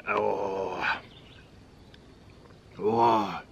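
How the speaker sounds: long breathy "oh" of pain; real groan from chili heat; pained exhale. Real, not acted. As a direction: blow out the burn in a drawn-out sigh. Pain from very spicy chip.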